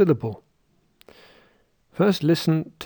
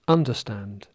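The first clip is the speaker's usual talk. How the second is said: Icelandic accent, understand said as UNderstand, stress on the first syllable; 4 semitones lower than usual. Shown as a demonstration. Teacher imitates an Icelandic accent, understand stressed on UN. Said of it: "Icelanders might say".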